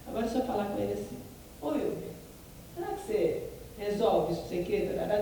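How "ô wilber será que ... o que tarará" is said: mildly haughty, demanding tone; arrogant request. Shown as a demonstration. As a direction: talk down to the coworker a little. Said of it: "essa pessoa é arrogante". (pedido levemente arrogante)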